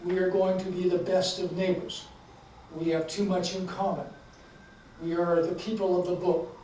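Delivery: deliberate, emphatic book reading with voiced dialogue; measured author's reading, pausing between phrases; story narration. A narrator's reading. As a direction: read the story aloud, leaning into the dialogue. Reads a story aloud to audience.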